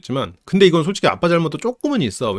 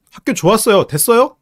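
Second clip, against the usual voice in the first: higher, louder sarcastic retort; snappy angry teen; 7 semitones higher, 4 dB louder than usual. Retold or imitated. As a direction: throw the answer back at dad. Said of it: "라고 화를 내버려".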